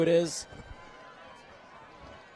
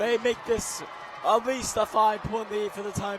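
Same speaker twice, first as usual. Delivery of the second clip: excited call; 5 semitones higher, 4 dB louder than usual. Real, not acted. After the touchdown.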